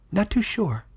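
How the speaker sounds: sniffing the air, uneasy little animal; alert Bando. A narrator's reading.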